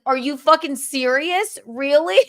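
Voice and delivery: mildly hammed-up disbelief, pitched high; retold incredulous reaction. Comic retelling hearing a friend's pregnancy news, mock incredulous. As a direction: act out being stunned, voice lifted.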